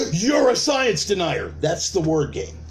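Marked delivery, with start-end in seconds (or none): 0.1-1.5 slow, high accusing label; mock outraged accuser. Activist branding a doubter, slow mock outrage. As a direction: drag it out like a verdict.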